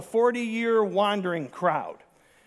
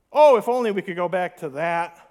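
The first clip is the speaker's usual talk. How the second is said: louder sarcastic sigh of longing; mock longing; 7 dB louder than usual. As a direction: pretend to miss the bad old days. Mocking longing for slavery.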